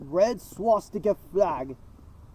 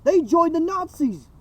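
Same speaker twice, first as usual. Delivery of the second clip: wild unhinged ranting; 7 semitones higher, 5 dB louder than usual. Real, not acted. Outburst in rant.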